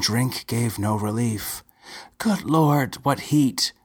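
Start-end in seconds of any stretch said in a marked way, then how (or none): 2.2-3.7 moan. A narrator's reading. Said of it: "she moaned".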